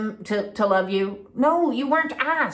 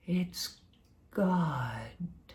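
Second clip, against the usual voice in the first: much softer, unvoiced and lower; hushed whisper; 6 semitones lower, 13 dB quieter, much slower than usual. Explaining God's time, an awed hushed whisper. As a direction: breathe it like a sacred secret.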